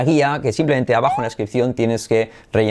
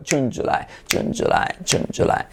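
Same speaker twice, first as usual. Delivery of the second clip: softer drill repeat; 4 dB quieter than usual. Shown as a demonstration. Softer repeat-after-me turn in drill.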